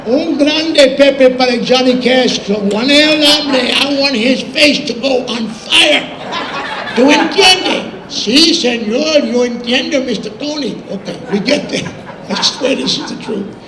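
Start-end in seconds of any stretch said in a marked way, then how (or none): 0.1-7.9 loud, high Spanglish, drawn out for emphasis; theatrical raised-voice instructions; hammed-up scheming order. Acting out scheming order in Spanish. 8.1-10.8 put-on Spanish-accented waiter. Voices restaurant man answering in Spanish.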